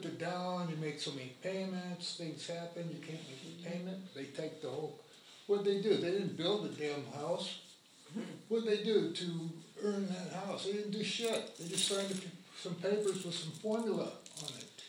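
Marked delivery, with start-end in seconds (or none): 5.5-14.8 indignant. Real, not acted. Housing activist railing at lenders who take homes, indignant. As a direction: hit the rhetorical questions hard, with outrage.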